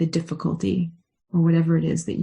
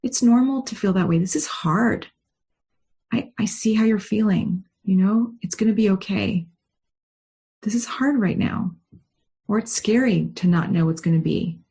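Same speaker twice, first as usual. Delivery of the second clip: put-on higher, tender voice soothing a scared child; loving comfort; 3 semitones higher than usual. Shown as a demonstration. To an anxious child, tender and higher-pitched. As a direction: comfort them like a worried little one. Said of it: "Probably do it really lovingly and say".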